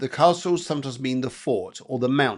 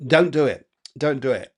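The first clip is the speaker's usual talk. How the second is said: warning voice; 4 dB louder than usual. Retold or imitated. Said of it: "And I hear".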